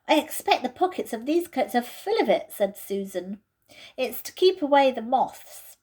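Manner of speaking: Susan's voice. Acted. Susan, cramped in the wardrobe, complains impatiently. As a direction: voice a fidgety girl stuck in a wardrobe.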